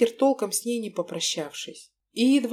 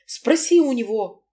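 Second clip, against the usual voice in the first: snap back; 3 semitones higher, 6 dB louder than usual. Acted. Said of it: "огрызнулась она".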